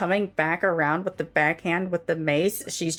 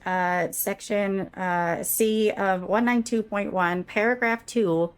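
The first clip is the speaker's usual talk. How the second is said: Karen voice; 2 semitones higher than usual. Acted. Karen confronting the troll.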